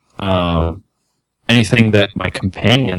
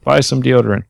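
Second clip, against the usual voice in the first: hammed-up commercial pitchman; ad spokesman voice; 7 semitones higher than usual. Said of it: "quoting the Old Spice ad".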